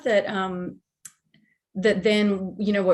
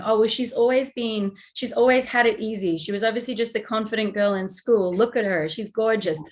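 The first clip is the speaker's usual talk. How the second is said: a light American accent, lightly put on. Host voicing doubting listeners in an American accent. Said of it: "I dropped into my version of American accent".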